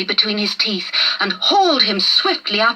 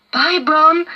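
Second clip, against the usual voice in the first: fond goodbye; 7 semitones higher, 4 dB louder than usual. A narrator's reading. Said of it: "smiling fondly".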